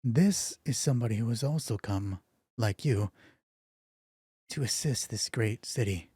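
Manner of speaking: flat robotic monotone. Acted. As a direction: deliver it like a robot. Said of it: "that same weird robotic voice".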